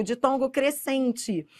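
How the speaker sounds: "de tongo" drawn out slowly, split in two; slow syllable demo. Shown as a demonstration. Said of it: "Da semivogal pra vogal". ("de tongo" dito devagar, sílaba por sílaba)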